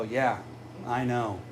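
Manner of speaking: weary Wisconsin locals. Retold or imitated. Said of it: "they just look at me and go".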